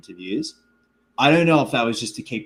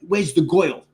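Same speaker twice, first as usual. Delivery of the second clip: higher, louder mafia twang; old-timey gangster twang; 7 semitones higher, 5 dB louder than usual. Retold or imitated. Imitating the actor's film line, old-timey gangster twang. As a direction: do an old-school mobster twang. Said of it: "old-timey gangster twang".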